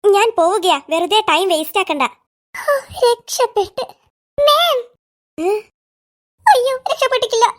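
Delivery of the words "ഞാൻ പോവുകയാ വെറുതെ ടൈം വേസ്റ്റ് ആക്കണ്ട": low, unhurried teacher voice. Acted. Teacher brushing off Tulasi's suspicions, low and dismissive.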